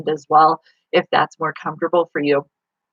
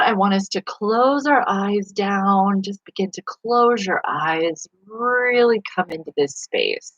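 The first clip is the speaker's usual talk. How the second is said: slow, higher-pitched meditation voice; guided meditation; 4 semitones higher, slower than usual. Acted. Host guiding listeners to close their eyes, meditation voice. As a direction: ease them slowly into stillness.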